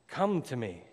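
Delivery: a touch of loving, gentle calling; Jesus lightly voiced, calling kindly; tender beckoning. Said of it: "lovingly and tenderly beckoning".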